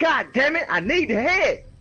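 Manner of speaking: acted, very high, determined, insistent, tenacious. Retelling what a woman said: mock-determined demand. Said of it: "you could hear the tenacity in the woman's voice".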